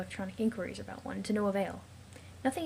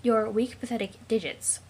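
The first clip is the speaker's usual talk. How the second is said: plain; 4 dB louder than usual. Acted. Game echoes the insult mockingly.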